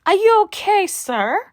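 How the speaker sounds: high, loud mock disbelief; talking back to the TV in loud mock shock; incredulous. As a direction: ask if he's okay, startled and amused. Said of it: "I'm like".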